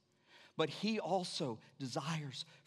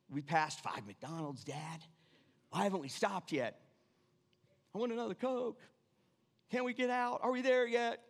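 put-on higher, whiny kids in the back seat; mock kids nagging dad, climbing higher; 5 semitones higher than usual. Preacher imitates kids nagging dad on a road trip, whiny.

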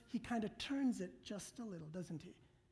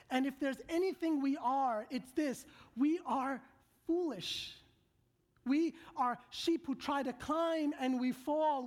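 raised, driving sermon voice; preaching at full force; 4 semitones higher, 3 dB louder than usual. Acted. Preacher telling the congregation they are bad sheep, in a raised preaching voice. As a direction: preach it hard, the congregation must hear how we fall. Preacher builds on human failings.

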